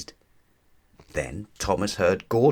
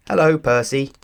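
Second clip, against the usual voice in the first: high, louder cheerful peep; 7 semitones higher, 7 dB louder than usual. Acted. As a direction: chirp the greeting up high. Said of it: "peeped Thomas".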